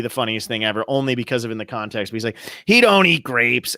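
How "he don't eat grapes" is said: put-on slow, lightly done Boston accent; a light imitation of a thick Boston accent; a mild mock Boston accent on a TV line. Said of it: "he says it in this really thick Boston accent".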